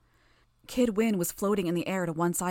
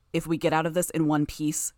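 low and menacing. Acted. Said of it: "his tone low and menacing".

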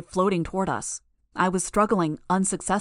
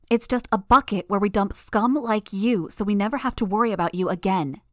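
menacing; 2 semitones higher than usual. Acted. Heroine threatening captured villains.

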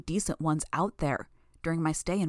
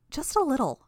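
put-on high playful girl voice; teasing girl voice; 9 semitones higher, 3 dB louder than usual. A narrator's reading. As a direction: toss it off with a teasing lilt.

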